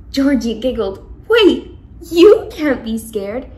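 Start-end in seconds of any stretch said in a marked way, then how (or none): 1.3-3.5 loud urgent call. Acted. Georgie calling after the fleeing ghost, loud. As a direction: shout to stop him running.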